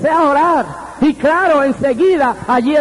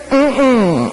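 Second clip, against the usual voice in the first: closed-mouth "mm-mm" of refusal; wordless refusal. Retold or imitated. Squeezed by God's hand, he retells a wordless hummed refusal. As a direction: hum a no, as if unable to speak. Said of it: "ya yo no podía hablar".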